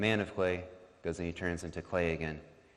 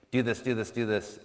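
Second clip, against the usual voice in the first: mock shouted orders; 4 semitones higher, 5 dB louder than usual. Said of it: "he has to shout until he's red in the face".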